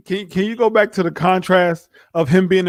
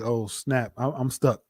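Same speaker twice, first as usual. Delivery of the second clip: muttered mock panic; 5 semitones lower, 9 dB quieter, slower than usual.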